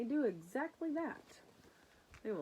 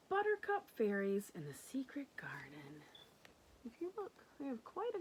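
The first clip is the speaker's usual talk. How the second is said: secret whisper; 2 semitones higher than usual. Acted.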